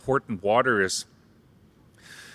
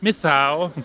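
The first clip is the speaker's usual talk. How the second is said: mild cat-like mithau, mithau; lightly voiced cat; cat meow pun; much slower than usual. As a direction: purr the th-meow like a petted cat. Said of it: "it was going".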